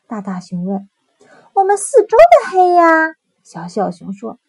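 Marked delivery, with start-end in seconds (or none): 1.5-3.1 high, loud wailing cub; a small cub crying out about the dark; little bear voice. Acted.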